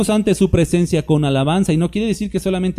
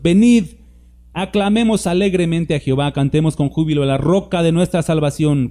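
inviting call. Shown as a demonstration. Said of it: "Es una invitación".

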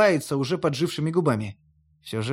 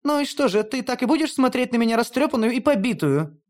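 higher playful pout; Hel, coy and higher; 7 semitones higher than usual. A narrator's reading. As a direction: tease him with feminine charm. (игриво, высоким голосом Хель)

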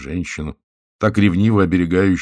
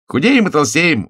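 high, loud merry exclaim; exclamation; 10 semitones higher, 7 dB louder than usual. A narrator's reading. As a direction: cry it out gleefully. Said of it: "воскликнул толстяк".

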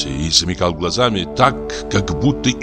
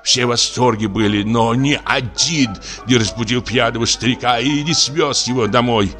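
put-on lamenting old actor; 4 semitones higher than usual.

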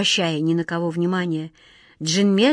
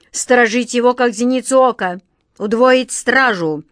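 suspicious king building to a louder order; fret, then command the guards; lightly voiced fussy monarch; anxious king; 3 semitones higher, 4 dB louder than usual.

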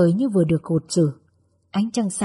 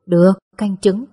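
louder, readily agreeing motherly reply; indulgent; 5 dB louder than usual. A narrator's reading. Mother agrees to daughter's request, indulgently. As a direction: give in fondly and firmly to a pampered child. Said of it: "Mẹ gật đầu chiều chuộng".

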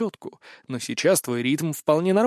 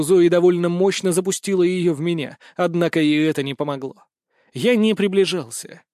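usual speaking voice

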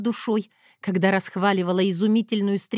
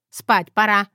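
command; 5 dB louder, slower than usual. Acted. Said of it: "командует моя новая родственница".

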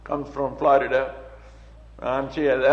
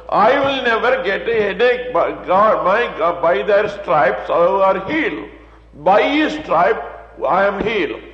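louder, higher, firm confession; bold declaration of faith; 4 semitones higher, 4 dB louder than usual. Acted. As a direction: proclaim it as if nothing can shake you. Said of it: "but you say so".

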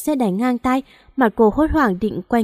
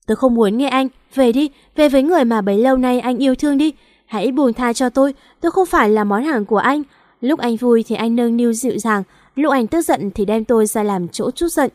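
shouting. Acted. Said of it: "hét lên thật to".

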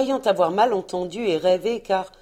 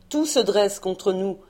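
gentle exclamation. Acted. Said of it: "s'exclama le corsaire avec douceur".

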